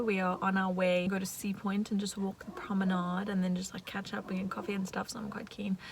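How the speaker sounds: soft whispered aside; whispering. Real, not acted. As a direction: whisper so no one hears. Whispered update.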